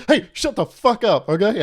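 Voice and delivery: mock furious yell. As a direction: blow up at the kid, half joking. Hypothetical parent snapping at kid.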